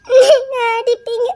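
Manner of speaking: slow, crying fear; wife fearing her husband will hit her; fearful and tearful. Acted. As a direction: shrink from him as you say it. Frightened wife fears being hit.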